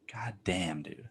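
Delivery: unvoiced whisper of a curse under the breath. Real, not acted. Muttered curse after rant.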